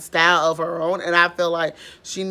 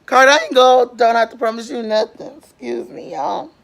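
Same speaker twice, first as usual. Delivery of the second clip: indignant; 5 semitones higher, 5 dB louder than usual. Real, not acted. Indignant rant.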